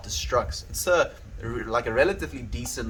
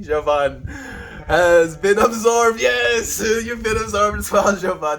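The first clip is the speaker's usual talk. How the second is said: dramatic announcer voice; 8 semitones higher, 7 dB louder than usual. Acted.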